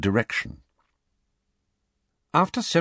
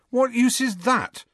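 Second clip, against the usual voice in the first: put-on high, loud boyish challenge; 4 dB louder than usual. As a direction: call it out across the class. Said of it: "said Harry loudly".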